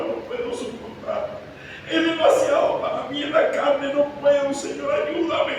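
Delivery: high, hushed, trembling plea; anguished pleading prayer. Acted. Jesus pleading with the Father in the garden, anguished and high. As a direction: beg to be spared the cup.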